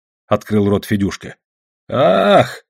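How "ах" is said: put-on high startled gasp of an old man; sharp rise in pitch, amazed; exclaiming. A narrator's reading. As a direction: cry out "ah" in astonishment. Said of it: "воскликнул дед".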